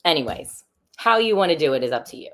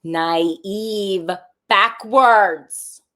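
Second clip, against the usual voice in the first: punchline; 4 semitones higher, 8 dB louder, much slower than usual. Acted. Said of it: "joke punchline".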